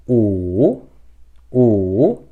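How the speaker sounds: "u" dips down, then rises; long falling-then-rising "u"; dipping tone. Shown as a demonstration. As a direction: let "u" sink and swing back up. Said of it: "ele desce e sobe".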